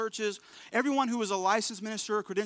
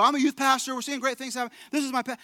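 eager spiel; 3 semitones higher than usual. Retold or imitated. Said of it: "the whole spiel".

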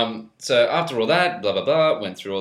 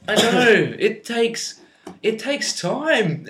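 mock lovesick girl; 10 semitones higher, 4 dB louder, much slower than usual. Mock ex high voice.

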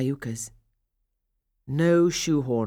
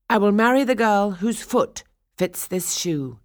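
proclaiming; 5 semitones higher, 6 dB louder than usual. Acted. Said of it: "the prince had announced".

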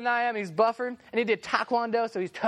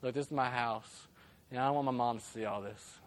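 much softer, low hushed plea; whispered; 11 semitones lower, 9 dB quieter than usual. Retold or imitated. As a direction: whisper so mom won't hear. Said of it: "He whispered to my ear".

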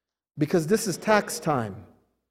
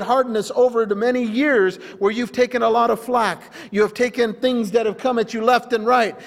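higher, driving sermon delivery; forceful preaching; 5 semitones higher, 3 dB louder than usual. Real, not acted. Preacher confronting the hard-hearted congregation, forceful preaching. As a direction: press each charge home like a preacher.

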